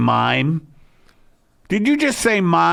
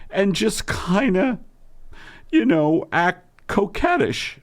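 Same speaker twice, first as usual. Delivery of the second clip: Margaret voice. Acted. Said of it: "two voices that Eddie Pepitone channels".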